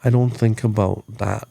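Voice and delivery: lightly imitated Indigenous accent; a hint of an Indigenous man's accent. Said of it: "in his deep native accent".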